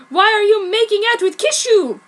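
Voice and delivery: high, loud dismayed question. A narrator's reading. Ryo demands why Sakura kisses Kishu, dismayed. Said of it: "he said".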